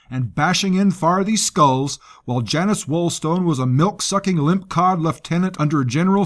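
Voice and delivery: lightly voiced coarse soldier; gruff commander voice. Rusk voiced by narrator.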